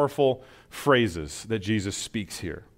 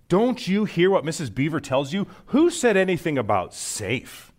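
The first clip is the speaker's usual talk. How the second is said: higher, mildly indignant retort; lightly voiced Mister Beaver; 5 semitones higher than usual. Mister Beaver answering Lucy, mildly indignant. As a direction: scoff lightly at the question. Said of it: "said Mister Beaver".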